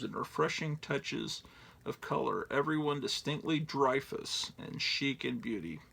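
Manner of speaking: hammed-up radio ad voice; old ad read. Reading out old ad text.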